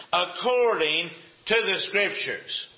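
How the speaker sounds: "according to the Scriptures" drawn out word by word; slow emphasis. Real, not acted. Preacher tells listeners to watch this, slow emphasis. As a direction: stretch "according to the Scriptures", pausing before "the Scriptures". Preacher highlights key phrase.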